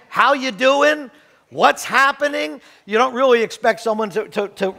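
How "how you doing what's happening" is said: slow, easygoing hello, pitched up; casual greeting. Retold or imitated. Pastor showing a greeting that expects no answer, easygoing. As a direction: drawl out a friendly hello. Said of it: "it was like saying".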